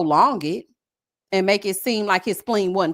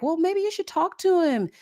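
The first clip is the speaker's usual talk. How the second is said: mock British accent; 6 semitones higher than usual. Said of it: "I ain't got the accent".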